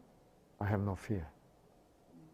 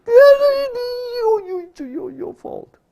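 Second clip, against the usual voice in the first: put-on very high childish wail of blame; daughter's tantrum; 11 dB louder, slower than usual. Daughter hitting her father's chest, high mock tantrum. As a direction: imitate a little girl pounding out an accusation. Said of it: "She was hitting, pounding on my chest".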